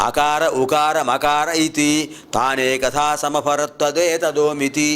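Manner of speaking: slow, measured Sanskrit chanting; Vedic mantra recitation. Acted. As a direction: chant the verses steadily on a level tone.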